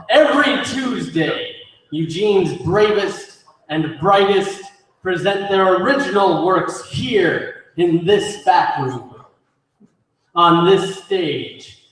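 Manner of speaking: showman's introduction with punched words; theatrical emcee. Acted. Emcee introduces the open mic.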